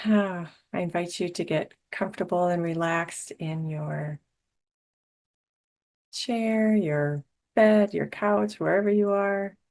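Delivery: guided meditation. Real, not acted. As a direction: ease listeners into calm with long pauses. Leads a meditation.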